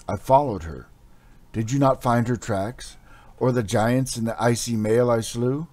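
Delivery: loud, haunted hero telling his tale; dazed barbarian hero. Acted. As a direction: recount it like a fevered warrior. Hero recounts to men.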